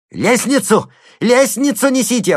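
high, loud shrieked command; frantic order. A narrator's reading. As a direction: shout for the ladder. Slotkin orders the ladder.

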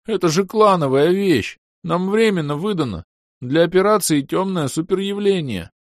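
the elf explains the clan item, high and insistent; squeaky elf. Acted. Squeaky elf keeps pleading.

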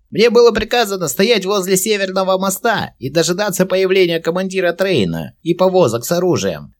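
very high, loud squeaky goblin. A narrator's reading. Captive goblin answering Verin, high goblin voice. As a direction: answer like a sly little goblin. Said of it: "ответил гоблин".

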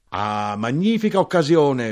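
high, loud rising exclamation; shouting. A narrator's reading. Knife-grinder cheering the occasion, high shout. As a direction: cry out with rowdy delight. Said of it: "l'arrotino gridò".

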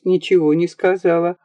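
plain reading voice

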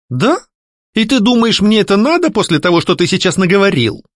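sharp. A narrator's reading. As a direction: cut him down. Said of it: "резко спросила я".

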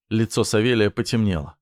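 usual speaking voice

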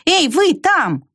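high shouted call from the window. A narrator's reading. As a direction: squirrel shouting down from her window. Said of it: "и крикнула".

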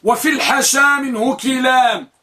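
كلام said kilam, i after the k; kilam with kasra. Shown as a demonstration. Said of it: "بكسر الكاف".

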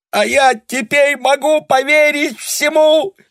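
very high, loud, slow cry through tears; tearful shout. A narrator's reading. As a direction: scream it out, sobbing. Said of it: "сквозь слёзы закричала Таня". (крик сквозь слёзы)

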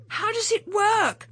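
fumbling anxiously with the catch; urgent. A narrator's reading. Polly struggling with catch.

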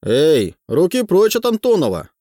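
high, loud heated protest; escalating comedy rant. A narrator's reading. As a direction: defend him with rising fervour. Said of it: "восклицает Усатый".

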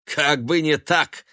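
slow, scoffing retort. A narrator's reading. Son scoffing at his mother's warning. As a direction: sneer it off. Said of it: "усмехнулся он".

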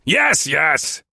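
impatient snap, high and sharp; snapped. A narrator's reading. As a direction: cut them off impatiently. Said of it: "he snapped".

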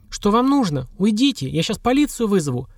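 high-pitched, restrained narrated shout; understated cry out. A narrator's reading. Anka to attackers, threatening police, understated high cry. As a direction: cry out in alarm without real volume. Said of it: "крикнула Анька, сама не слыша себя".

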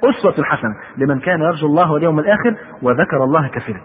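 measured formal verse reading; careful sacred recitation; scripture recitation. A narrator's reading. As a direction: quote the verse with deliberate care.

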